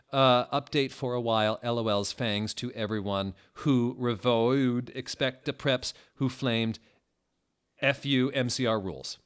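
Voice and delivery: lightly voiced snotty fanfic writer; mocking angsty teen author. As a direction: sneer at the preps like a sulky teen. Author's note in a mock voice.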